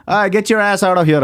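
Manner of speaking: high-pitched dismissive imitation of the host; hammed-up high voice sending someone packing; mocking host. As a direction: act out kicking someone offstage. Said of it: "and then he says".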